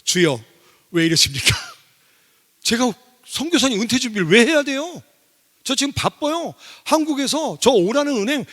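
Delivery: bragging excuses tossed up to God with a laugh; protesting to God. Retold or imitated. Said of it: "그래서 제가 바로 이랬어요".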